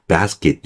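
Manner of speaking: "basket" with open a and tense k; English basket. Shown as a demonstration. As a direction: say "basket" like BAS-git, final t unreleased. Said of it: "요 정도 하시면 되고요".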